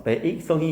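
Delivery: 백성이 with 백 split into ba-ik; old reading of 백성이 as ba-ik-seong-i; split diphthong. Shown as a demonstration. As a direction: sound 아 and 이 separately in 백성이. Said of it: "이렇게 얘기해야 돼요".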